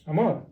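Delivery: amor stressed on "mor"; stress on last syllable. Shown as a demonstration. Teacher repeats the rule's example, amor stressed on "mor". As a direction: put the weight on the end of amor. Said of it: "you stress the last syllable".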